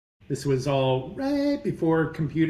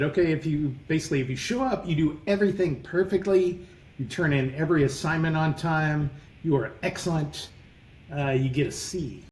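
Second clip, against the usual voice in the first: put-on New York accent. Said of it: "I'm gonna do his accent".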